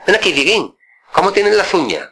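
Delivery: high mock old uncle voice. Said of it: "me decía Dieguín".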